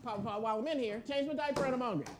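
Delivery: put-on high whiny little-kid voice; toddler voice. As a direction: ask like a hungry toddler. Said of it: "like my two-year-old granddaughter".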